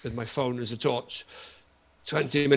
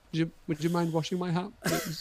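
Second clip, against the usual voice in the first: softer, timid asking voice; sheepish request; 7 dB quieter than usual. Retold or imitated. Husband meekly asks his wife to wash his hat, sheepish and soft. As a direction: ask meekly, like a guilty child. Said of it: "I was very sheepish".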